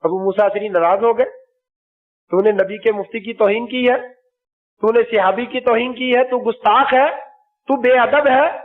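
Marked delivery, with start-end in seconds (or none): 2.3-8.6 angry rebuke. Retold or imitated. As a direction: scold him as an insolent upstart, getting hotter with each charge. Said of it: "ایسے نہیں کہا".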